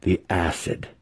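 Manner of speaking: slow, smiling relish; eager smile. Acted. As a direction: savour it with a grin. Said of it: "with an eager smile on his face".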